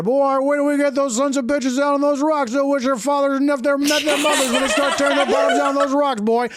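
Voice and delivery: put-on high, rambling old salt of a fisherman; rambling local fisherman. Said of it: "does this rambling speech".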